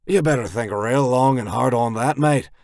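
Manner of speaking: enjoy the threat a little too much; too happily. Acted. Skirt taunts the goons at gunpoint, too happily. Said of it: "Skirt says a bit too happily".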